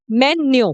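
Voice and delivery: "मेन्यू" as two beats, me-nyo; correct pronunciation. Shown as a demonstration. Teacher answering her own question, careful "मेन्यू" as me-nyo. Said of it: "इसको क्या बोलते हैं".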